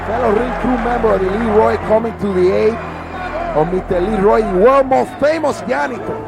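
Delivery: ordinary delivery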